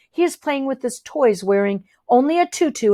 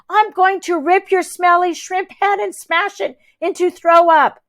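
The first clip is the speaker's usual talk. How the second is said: higher furious threat; angry threat; 8 semitones higher than usual. A narrator's reading. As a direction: threaten him, boiling over. Rosabelle attacks Ridley.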